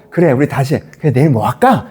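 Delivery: lightly acted loving reassurance; tender tone. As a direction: ask it gently, as if reconnecting. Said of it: "그 톤을 가져가야 되는 거잖아요".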